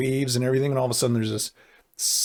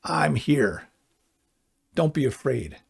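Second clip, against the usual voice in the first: reassuring Jesus voice; slower than usual. Retold or imitated. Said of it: "he comes and he says to us".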